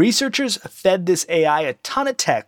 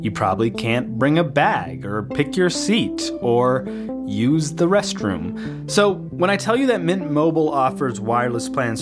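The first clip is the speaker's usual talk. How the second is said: ad read; 2 semitones lower than usual. Acted. Host reads a sponsor ad.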